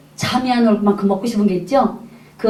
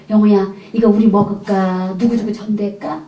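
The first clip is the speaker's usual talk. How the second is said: coaxing mother. Retold or imitated. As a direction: nudge the child toward sharing. Mother coaxes child to share. (아이를 살살 구슬리듯 천천히)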